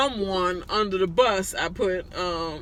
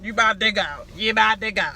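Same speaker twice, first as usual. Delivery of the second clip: stern scolding. Real, not acted. Scolding someone off to the side.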